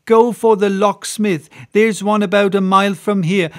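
landlady refusing, then fishing for a key; indignant landlady. Acted. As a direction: put her foot down. Landlady forbidding door break.

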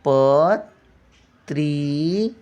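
पत्री- stretched slowly, syllable by syllable; syllable drawn out. Shown as a demonstration. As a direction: drag out पत्री- to show its sound. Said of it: "प्रश्न".

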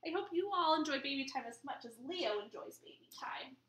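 hushed whisper to the grown-ups; whispered aside. Real, not acted. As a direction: whisper to the parents about Leo. Aside to the parents.

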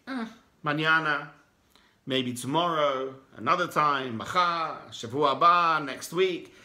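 tempter's voice. Retold or imitated. Voicing the Yetzer Hara's excuses.

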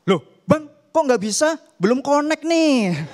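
high, loud puzzled complaint; complaining customer. Pretend. Customer complaining to the wartik keeper, loud puzzled call. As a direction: call out to the shop guy.

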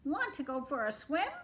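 a hint of a friendly storybook duck; lightly voiced duck. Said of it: "called the duck".

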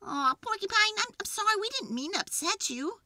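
high, earnest character voice; high, consoling animal voice; sympathetic apology. A narrator's reading. Jim apologises to sad Porcupine.

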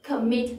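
"commit" with the weight on "mit"; stress on second syllable. Shown as a demonstration. Teacher models an English verb for learners, stress on second syllable. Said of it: "nhấn âm tiết thứ hai".

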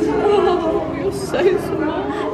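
high, slow cooing at a puppy. Real, not acted.

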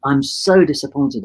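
slow, drawn-out mild disappointment; retold disappointment. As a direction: stretch out the letdown gently. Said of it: "And I said".

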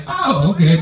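high-pitched fake agreeableness; barely holding it together. Twitching boyfriend giving in to girlfriend, mock fake calm. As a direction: play agreeable while cracking up inside. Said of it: "I'm losing it".

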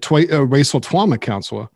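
mock impediment with r softened to w; mimicked speech impediment. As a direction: say "racial Twama counselor" with rounded, w-like r sounds. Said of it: "making fun of his speech impediment".

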